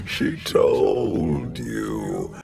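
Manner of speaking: drawn-out, savouring menace; slow sinister delight; slow gloating. Acted. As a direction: relish every word slowly. Villain savours betrayal.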